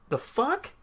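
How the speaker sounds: high-pitched, questioning disbelief; retold shock. Hearing of the death in a group chat, stunned. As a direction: imitate a stunned, high reaction.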